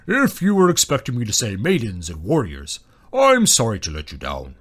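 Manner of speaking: rumbling beast, dryly apologetic; wry booming dragon. A narrator's reading. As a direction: apologise grandly as a great dragon.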